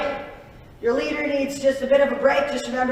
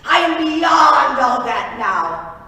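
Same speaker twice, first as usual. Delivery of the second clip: slow grand declaration; booming overlord; 5 semitones higher, 8 dB louder, much slower than usual. Acted. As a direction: boom it from the throne. Megalomaniac overlord.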